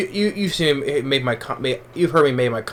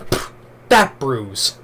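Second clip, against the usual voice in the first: imitating Seagal; much slower than usual. Reviewer quoting Seagal's Glimmer Man line, in a slow deadpan imitation. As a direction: drag it out like a deadpan tough guy.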